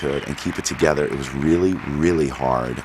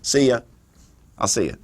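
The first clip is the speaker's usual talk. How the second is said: mock-gushing, much higher, over-sweet goodbye; fake gushing. Mocking cast goodbyes on any movie, high gushing. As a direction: gush like a fake-sincere castmate.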